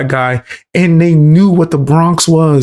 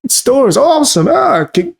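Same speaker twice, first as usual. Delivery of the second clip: mock cheerful commercial voice; 12 semitones higher than usual. Mocking the forced commercial line.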